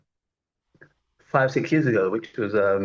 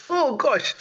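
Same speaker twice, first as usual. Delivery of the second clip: high-pitched exclamation of shock; surprised oh gosh; 13 semitones higher than usual. Real, not acted. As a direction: squeal it out in sudden shock. Recalling a hotel washout.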